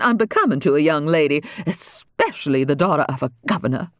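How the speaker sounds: severe. Acted. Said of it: "the First Lady told her severely".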